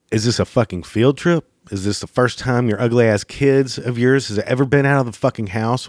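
calm turning angry. Retold or imitated. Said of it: "It'll probably go something like that".

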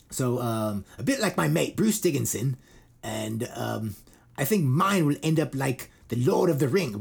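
lightly imitated British singer's accent; a hint of put-on British rocker; a metal singer's accent. Singer talks about his book, lightly mimicked British accent. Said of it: "Why am I doing his accent?".

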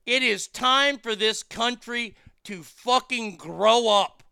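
building to a shouted up; angry yell. Real, not acted. Host ranting at the country, furious shout. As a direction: bark it at the whole country.

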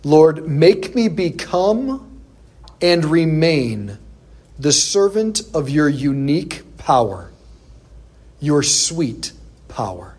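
slow, reverent prayer; a slow reverent reading of the Pope's prayer; prayerful reading. Acted. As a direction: pray each word slowly. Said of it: "This is what he says".

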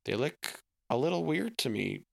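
bright, chatty dad coming home; lightly voiced jolly father; cheerful dad voice.

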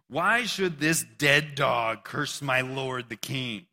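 slow, outraged soldier voice, a touch acted; drawn-out indignant soldier speaking up for his king; a hint of an angry bodyguard; lightly voiced soldier. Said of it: "here's what David's men say".

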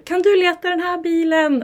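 retold mock call to a toddler. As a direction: call across the room to get his attention. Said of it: "man ropar".

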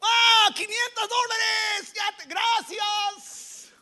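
high, long-drawn cry of wonder; hammed-up heavenly jackpot cry, stretched out slowly; mock amazement. Preacher mocks money falling from heaven, high drawn-out amazement. Mock instant answer to prayer.

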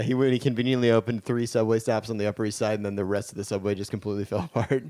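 quick low mutter, soft; hurried, low muttered aside. Acted.

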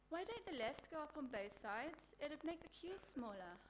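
put-on clueless girl asking in earnest; dumb blonde impression. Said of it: "choice examples include".

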